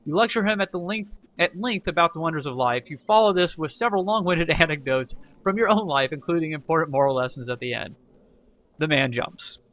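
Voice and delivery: narrating the event text aloud; game event narration; reading game text. Acted. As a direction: read it like a storybook.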